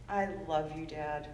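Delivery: soft, low, heartfelt aside; quietly fond daughter's thought; tender. Retold or imitated. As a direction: drop it low and quiet, with affection. Fond thought closing story about father.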